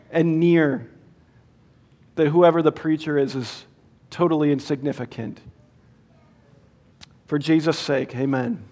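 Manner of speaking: measured, reverent prayer with long pauses; public prayer. Real, not acted. Preacher praying to the Lord before the sermon, reverent prayer. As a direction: pray humbly, letting each phrase settle.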